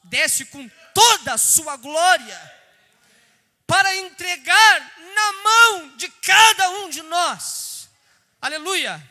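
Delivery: slow, loud, soaring preacher's call; preaching at full force. Acted. Preacher to the church about the glory, in a slow loud call. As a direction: lift the glory line up high and loud.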